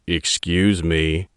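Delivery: through teeth. Acted. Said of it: "grinding his teeth openly".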